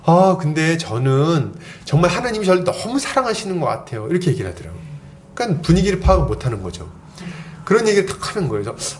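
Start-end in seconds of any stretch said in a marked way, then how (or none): 0.1-4.1 a touch of gushing, higher at the start; lightly voiced naive young believer. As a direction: lightly imitate an oblivious newcomer's testimony. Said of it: "이 친구가 갑자기 이렇게 얘기하는 거예요". (눈치 없는 새내기의 간증을 살짝 흉내 내듯)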